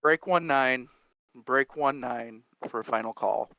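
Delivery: loud trucker call over CB radio; radio call, crackly and loud. Acted. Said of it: "the final call, uh, by Farmer Kurt over what would have been the C B".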